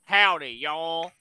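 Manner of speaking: slow, soft Southern drawl; Southern American accent. Shown as a demonstration. Chiming in on the accent challenge, soft slow Southern accent. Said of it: "Southern is easiest".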